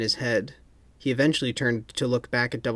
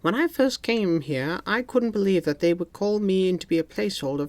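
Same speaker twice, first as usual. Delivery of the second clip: stern boss; 7 semitones higher than usual. A narrator's reading. M speaks.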